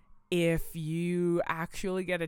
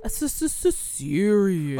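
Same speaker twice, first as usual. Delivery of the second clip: serious voice; 6 dB louder than usual. Pretend. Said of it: "Why is that the voice I'm doing".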